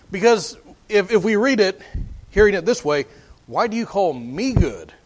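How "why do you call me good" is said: "me" picked out in "Why do you call me good"; stress on ME. Shown as a demonstration. Preacher showing how people misread Jesus's question, stressing ME. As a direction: lean on ME as the word in question. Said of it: "put the emphasis on the wrong word".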